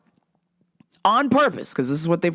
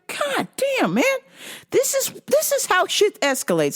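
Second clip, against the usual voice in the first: exasperated aside. Retold or imitated. Inner voice retold.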